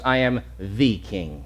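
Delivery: "the" drawn out as "thee" before "king"; slowly single out "the", said as "thee"; stress on THE. Shown as a demonstration. Contrasts "the king" with "a king.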